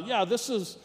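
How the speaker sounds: lightly acted caller, pitched a bit up; a hint of an innocent caller; phone caller. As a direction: casually ask for someone on the phone. Caller asks for Daryl by phone.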